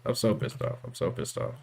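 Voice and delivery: hushed, seething whisper. Real, not acted. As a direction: mutter it under your breath, fuming. Repeats the line in different ways.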